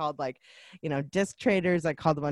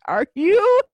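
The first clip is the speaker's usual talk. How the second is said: loud, high, incredulous outburst; can't believe it, half yelling; exasperated disbelief; 11 semitones higher, 7 dB louder than usual. Retold or imitated. Finding the movie free online.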